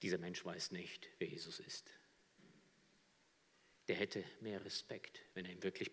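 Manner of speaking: soft unvoiced whisper. Real, not acted. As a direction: drop to a whisper. Preacher whispers. (geflüstert)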